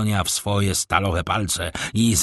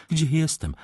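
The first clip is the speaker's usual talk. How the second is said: calling out; 7 semitones higher than usual. A narrator's reading. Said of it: "zawołała".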